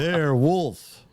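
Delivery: hammed-up Igor repeat. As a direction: say it like he didn't hear you the first time. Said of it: "He goes".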